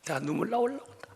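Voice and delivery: ordinary talk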